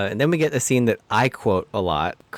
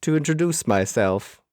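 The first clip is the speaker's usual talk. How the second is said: Bond villain; 2 semitones higher than usual. Retold or imitated. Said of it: "like a Bond villain".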